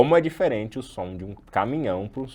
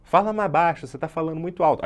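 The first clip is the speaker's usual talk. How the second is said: mock annoyed request; 7 semitones higher, 5 dB louder, faster than usual. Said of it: "é, essa é melhor". (pedindo para falar mais baixo, irritado)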